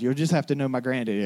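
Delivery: ordinary delivery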